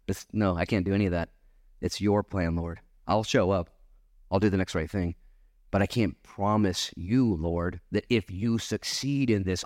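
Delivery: low, subdued answer to the Lord; humble refusal. Retold or imitated. Acts out humble answer to God.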